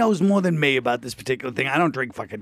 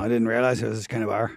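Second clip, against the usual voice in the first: put-on Irish accent; 6 semitones lower, 4 dB quieter than usual. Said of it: "I'll speak in Colin".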